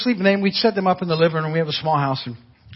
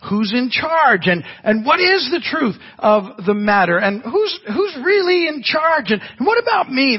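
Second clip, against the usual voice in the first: higher, building to a shout; anxious questions; 5 semitones higher than usual. Retold or imitated. Pastor voicing people's worried questions, rising to a shout. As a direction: cry out the questions.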